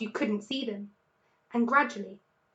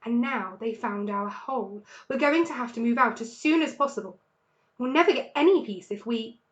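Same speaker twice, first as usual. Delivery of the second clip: worried thinking aloud; 4 dB louder than usual. Acted. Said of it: "he thought".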